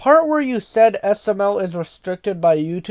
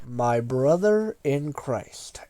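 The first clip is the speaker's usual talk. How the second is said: exasperated; 6 semitones lower, 6 dB quieter, much slower than usual. Acted. Exasperated aside to a commenter.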